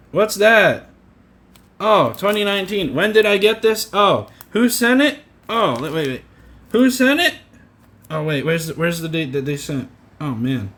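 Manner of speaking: mock condescending. Shown as a demonstration. Showing the caseworker what condescending sounds like, mock-puzzled. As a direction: play dumb, mocking the caseworker. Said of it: "This is me being condescending".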